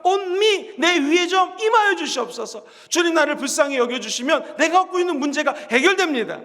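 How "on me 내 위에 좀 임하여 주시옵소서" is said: slow emphasis. Shown as a demonstration. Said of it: "drawn-out emphatic plea".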